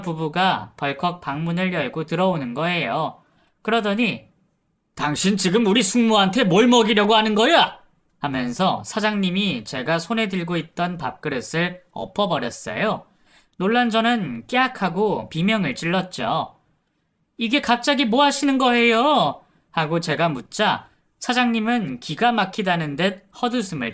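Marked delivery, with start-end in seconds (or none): 4.9-7.8 loud, sharp accusing demand, pitched up; angry accusation. Retold or imitated. Nephew bursting in on the caregiver, furious accusation. 17.4-19.4 high, startled cry of protest; shocked protest. Retold or imitated. Caregiver after her bowl is knocked away, shocked protest.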